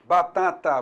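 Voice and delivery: "batata" in even, separate beats; demonstrated word. Shown as a demonstration. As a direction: let each vowel of "batata" pulse. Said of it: "fale a palavra batata".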